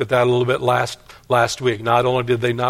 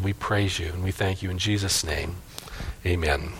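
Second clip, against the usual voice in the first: prayer; 3 dB quieter than usual. Real, not acted. Pastor thanks God for his people, prayerful. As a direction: pray quietly, trailing down to the amen.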